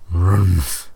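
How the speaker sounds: short, loud animal grunt; bear grunt. A narrator's reading. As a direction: grunt a bear's agreement.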